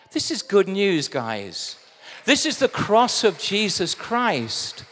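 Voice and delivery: loud, emphatic preaching; ringing declaration to the congregation; fervent proclamation. Real, not acted. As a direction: drive the good news home with force. Preacher proclaiming good news to congregation.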